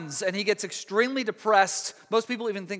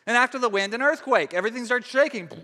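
higher, excited storyteller pitch; dramatic build; 5 semitones higher than usual. Retold or imitated. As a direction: build the drama as the earthquake hits. Dramatizing earthquake in Elijah story.

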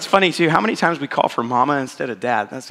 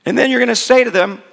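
higher, louder fierce mother's command; hardcore mom; 7 semitones higher, 4 dB louder than usual. Retold or imitated. Mother arming her five-year-old against demons, fiercely commanding. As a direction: drill it into the boy like a battle order. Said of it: "my mom was hardcore".

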